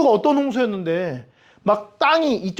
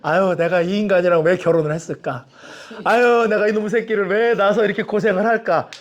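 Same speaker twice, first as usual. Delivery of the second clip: acted lament over one's lot; mock bitter complaint; resentful grumbling. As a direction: grumble like a worn-out spouse and parent. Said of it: "원망할 때".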